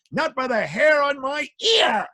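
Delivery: high, slow little pig squeak. Acted. Pig answering the wolf from inside.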